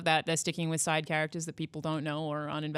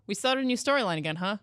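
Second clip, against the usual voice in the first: raised, sarcastic "oh, again?"; weary sarcasm; 7 semitones higher, 4 dB louder than usual. Retold or imitated. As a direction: roll your eyes at yet another reboot. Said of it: "even that is just like".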